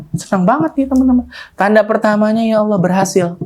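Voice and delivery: high, bubbling excitement; thrilled. Acted. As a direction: share the triumph with the crowd. Narrator shares his joy.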